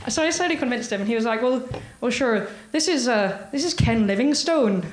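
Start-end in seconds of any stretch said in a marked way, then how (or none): 1.4-4.9 hesitant imitated Northern Irish caller; Northern Irish accent. Wary caller giving his name, imitated Northern Irish accent. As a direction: introduce yourself haltingly in a Northern Irish accent. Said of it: "the accent is very difficult to achieve".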